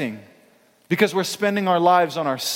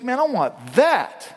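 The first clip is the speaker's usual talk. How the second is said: longing; 7 semitones higher, slower than usual. Retold or imitated. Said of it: "I was like".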